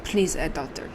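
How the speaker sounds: put-on rough German accent sliding toward Russian; attempted German accent. Two doctors discussing a missing patient, attempted German accent. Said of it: "I was almost Russian".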